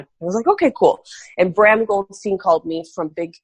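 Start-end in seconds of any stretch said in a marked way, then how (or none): 0.5-1.0 high, bright surprised okay; mock delight at the news; retold surprised okay. Telling the interviewer her surprised answer to the friend.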